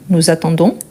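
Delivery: nous attendons with a clear Z linking nous to attendons; audible liaison. Shown as a demonstration. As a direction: sound the liaison "nou-za-tan-don". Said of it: "Ici, on entend bien".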